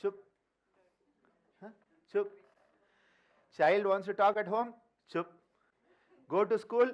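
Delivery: put-on curt hushing chup to a child. Adults silencing a child everywhere, curt hushing chup. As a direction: shut the child up with one short chup. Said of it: "We are told from childhood".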